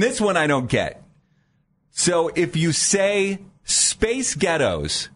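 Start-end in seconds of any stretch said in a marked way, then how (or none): 3.6-5.1 slow, raised Scottish-sounding phrase; mock Scottish accent. Shown as a demonstration. Showing cohost the meme phrase, mock Scottish accent. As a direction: say it slowly, like a band's name in a Scottish accent. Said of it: "saying a band's name in a".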